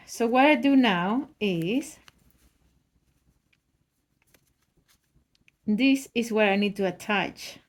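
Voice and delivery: talking around a pin in the mouth; words slurred by a pin held between lips. Real, not acted. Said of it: "I'm talking with a pin in my mouth".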